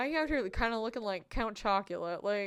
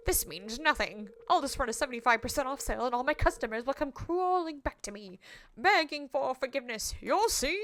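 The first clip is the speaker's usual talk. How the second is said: lightly acted gloating villain; a hint of theatrical villainy; lightly voiced scornful rival; 6 dB louder than usual. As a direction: sneer it lightly, building to a threat. Voices rival shopkeeper's dialogue.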